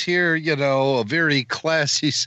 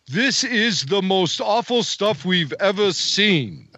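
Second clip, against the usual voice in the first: put-on older-colleague voice, pitched higher; Kershner impression; 5 semitones higher than usual. Podcast guest retelling a director's verdict after a screening, put-on higher voice. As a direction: quote the director in a raised, altered voice. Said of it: "Kirsch says".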